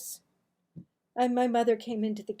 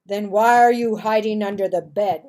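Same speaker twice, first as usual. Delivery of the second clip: louder stern father's question; 2 semitones lower, 12 dB louder than usual. Acted. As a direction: catch them in the lie. Father catches the lie.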